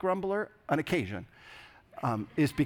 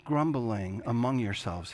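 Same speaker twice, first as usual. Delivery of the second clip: simple loving truth; 4 semitones lower, slower than usual. Retold or imitated. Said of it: "he says".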